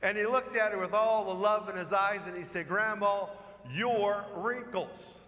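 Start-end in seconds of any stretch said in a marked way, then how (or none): 2.7-5.2 put-on slow, loving child's reply to grandma; tender punchline. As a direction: draw out your wrinkles lovingly.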